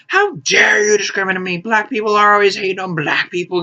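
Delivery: high-pitched mock outraged yell; retold yelling. Hat seller going off on a woman, retold yelling. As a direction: imitate an indignant man going off. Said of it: "He yells at her".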